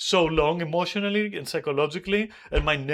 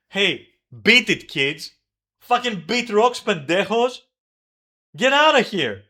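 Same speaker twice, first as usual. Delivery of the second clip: retold yell; 3 dB louder than usual. Retelling yelling at party guests.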